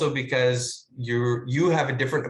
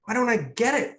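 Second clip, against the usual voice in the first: mock pathetic; 8 semitones higher, faster than usual. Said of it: "pathetically look at my script and be like".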